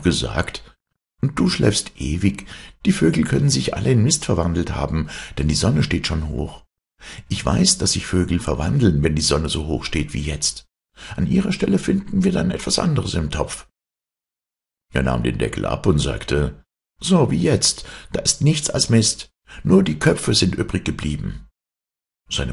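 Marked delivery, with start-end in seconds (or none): 1.2-13.7 high, animated scolding; knowing trickster making his case; reproachful trickster son. Acted. Hero lectures his sleeping mother. 17.0-21.5 high, emphatic announcement; animated storybook trickster; trickster son declaring. Acted. Hero shows the pot.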